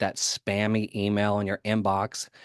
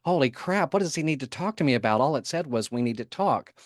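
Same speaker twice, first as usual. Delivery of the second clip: mock panic; 4 semitones higher than usual. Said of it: "because you're thinking".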